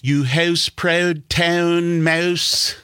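high, very slow Canadian "house" and "mouse"; Canadian accent. Retold or imitated. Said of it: "they'd be like".

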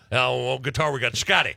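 lightly voiced rock-and-roll frontman introducing the band; a hint of a famous rock singer onstage. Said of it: "as Elvis, I like to mess around".

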